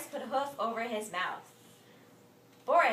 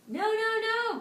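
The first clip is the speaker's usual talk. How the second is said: louder, much higher no no no; loud shout; 13 semitones higher, 8 dB louder than usual. Acted. Boris rejecting Morris's guess, loud high shout. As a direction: cut him off hard. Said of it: "Boris shouted".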